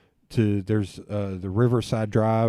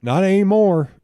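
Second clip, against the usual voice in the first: retold retort; 8 semitones higher, 7 dB louder than usual. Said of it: "he was like".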